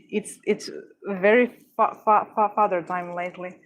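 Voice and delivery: stammering on the first sound; stuttering. Real, not acted. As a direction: repeats fa before the word. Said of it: "my stuttering is going to be worse than usual".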